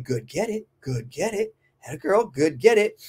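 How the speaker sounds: encouraging. Shown as a demonstration. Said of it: "I start telling them".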